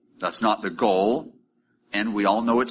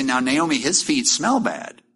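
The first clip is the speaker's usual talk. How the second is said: mock complaint. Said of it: "She could say".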